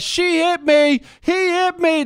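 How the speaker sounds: put-on high, loud, whiny kid wail; screaming toddler. Toddler on the ground accusing the neighbor, a high, loud wail. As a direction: play the tantrum kid crying foul. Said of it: "He starts screaming bloody murder".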